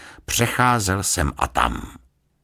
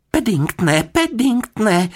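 high, loud wail of reproach; unhappy; 6 dB louder, slower than usual. A narrator's reading. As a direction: call the name in dismay, slower the second time. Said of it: "nešťastně se na něj podívala". (nešťastně, vyčítavě)

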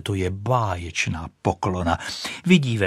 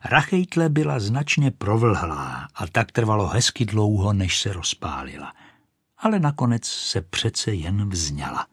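ordinary delivery

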